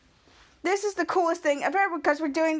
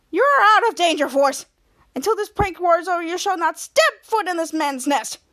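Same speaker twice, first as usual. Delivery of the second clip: angry banishment; 3 semitones higher, 4 dB louder than usual. Retold or imitated. Ray banishing Mika from group.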